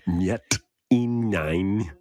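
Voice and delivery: slow, eerie programming chant; backwards speech. Pretend. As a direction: count down like brainwashing a soldier. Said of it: "sounded like you were programming the Winter Soldier".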